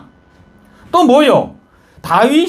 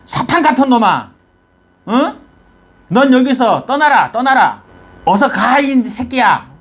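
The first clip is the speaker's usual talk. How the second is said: mock angry denunciation, only a little raised; imitated cursing yell. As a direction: act out Shimei hurling curses at the king. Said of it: "고래 고함 지르는 거야". (저주하며 호통치는 흉내)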